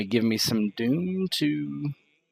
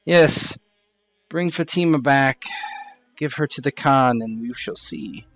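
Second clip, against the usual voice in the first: higher in-character voice, deliberate pauses; formal, pitched-up challenge to a rival; knowing, challenging character; 4 semitones higher than usual. Acted. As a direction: lay out the accusation in measured phrases. Game master voices Sahadina answering Yasser.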